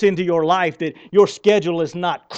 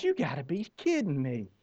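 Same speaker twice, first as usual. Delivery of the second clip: muttered disbelief; 4 semitones lower, 11 dB quieter than usual. Retold or imitated. Retold reaction to God's call.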